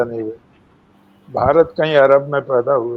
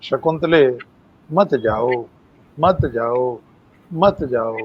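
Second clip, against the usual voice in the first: understated sorrowful plea, sinking lower; mild imitated weeping; 3 semitones lower, 3 dB quieter, slower than usual. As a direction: softly imitate grieving trees begging her to stay. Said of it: "वो भी रोकर कह रहे हैं".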